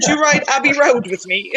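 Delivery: high, badly done band-member accent; failed Liverpool accent. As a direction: attempt a Liverpool accent and miss. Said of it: "I can't just do the accent".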